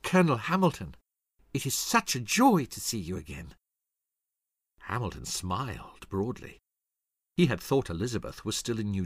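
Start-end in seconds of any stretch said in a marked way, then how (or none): 0.0-3.5 put-on pleased young lady, pitch lifted at first; glad, lightly lifted welcome; delighted greeting. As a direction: greet him with barely contained pleasure. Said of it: "She could hardly contain her pleasure".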